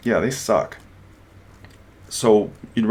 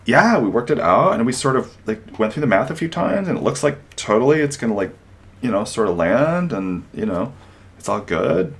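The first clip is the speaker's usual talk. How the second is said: hedging, noncommittal employee; mock vague employee; 3 semitones higher than usual. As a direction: mumble the answer with sort of and like. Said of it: "you don't get to say".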